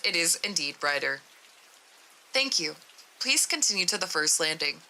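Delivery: even, measured report reading; matter-of-fact document narration; story narration. A narrator's reading. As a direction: read it like a formal case log.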